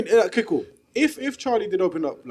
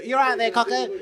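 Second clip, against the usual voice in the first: put-on northern accent variant; 3 semitones higher than usual. Repeated in another dialect.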